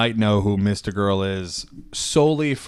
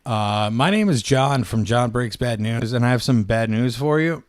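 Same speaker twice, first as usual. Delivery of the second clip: louder bad-news announcer; announcer voice on phone; 2 semitones higher, 7 dB louder than usual. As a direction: announce it boldly like a herald. Prank call intro.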